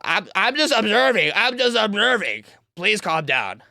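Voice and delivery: lightly mocking a timid protester; whiny mimic of the observer, barely changed; mock soy boy voice. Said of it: "what a soy boy".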